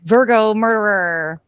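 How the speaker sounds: a faint hint of leprechaun; lightly voiced leprechaun lilt. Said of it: "Did you say that in a leprechaun voice?".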